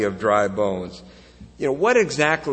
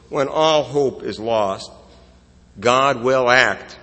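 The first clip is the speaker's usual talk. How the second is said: slow, louder, God will act pounded out; slow emphatic climax; 4 dB louder, slower than usual. Shown as a demonstration. Preacher declaring God will act, slow and loud. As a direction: build and land it hard. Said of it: "preaching climax".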